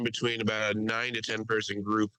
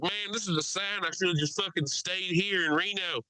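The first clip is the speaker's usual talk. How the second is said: higher-pitched Mississippi loudmouth imitation; crazy Mississippi accent; 6 semitones higher than usual. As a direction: grumble to the cabin in a Mississippi accent. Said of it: "The guy has a crazy accent".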